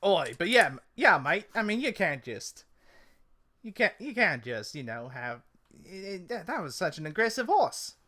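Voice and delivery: halting mock-Cockney protest; wobbly Cockney-Australian, searching for words; attempted Cockney. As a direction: stumble through a complaint in amateur Cockney. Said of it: "I was trying to go Cockney".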